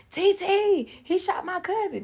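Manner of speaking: very high, loud frantic scream. Retold or imitated. Dwight screaming to his mother that his cousin is shot, very high. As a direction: shriek for help across the yard. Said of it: "he was like".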